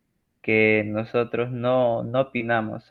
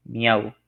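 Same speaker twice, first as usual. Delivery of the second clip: cat meow. Shown as a demonstration. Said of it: "el maullido de un gato".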